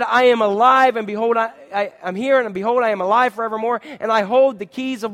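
loud, ringing proclamation as Jesus; Jesus proclaiming. Acted. Preacher voices risen Jesus quoting.

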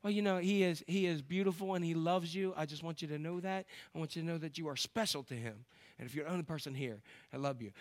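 soft, sincere, slowing voice of a caring Southern friend; tender witness. Retold or imitated. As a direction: speak gently, as if telling a stranger she is loved. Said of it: "And they keep going".

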